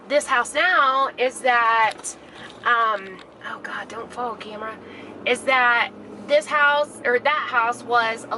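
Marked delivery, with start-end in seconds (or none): 3.4-4.7 worried mutter. Real, not acted. Camera slipping on dashboard.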